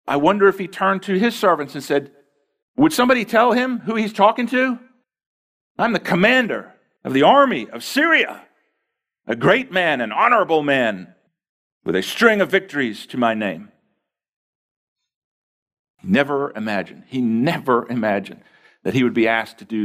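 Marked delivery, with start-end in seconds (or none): 2.8-13.7 pitched up, indignant boast of rank; a proud general demanding respect; boasting Naaman. Acted. Naaman protesting to his servants, lifted indignant voice.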